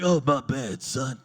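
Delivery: low, loud mock apology; friend's voice. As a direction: drop low for the friend's line.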